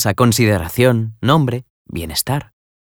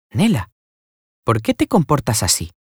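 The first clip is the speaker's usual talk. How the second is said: tender; 4 semitones higher than usual. A narrator's reading. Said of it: "dijo con cariño".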